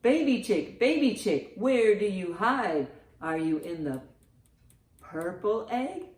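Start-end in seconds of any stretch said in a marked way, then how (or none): none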